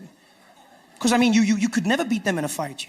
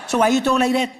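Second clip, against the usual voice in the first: loud, higher Cape Town questioning; mock Cape Town accent, pitched up; 5 semitones higher, 6 dB louder than usual. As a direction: imitate a baffled Cape Town local. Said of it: "He's like".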